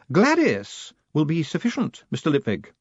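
high, stern lady with a hint of triumph; triumphant matron. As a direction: savour the small victory. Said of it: "a hint of triumph in her voice".

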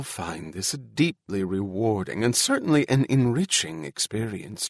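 lightly voiced hostess announcing a program; gracious First Lady. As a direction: introduce the evening as a First Lady, lightly acted.

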